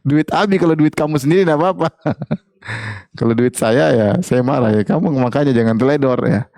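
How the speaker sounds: lightly voiced annoyed husband; husband's retort. Husband retorting to wife about his lost money, mock indignant. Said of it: "Abi kok marah-marah".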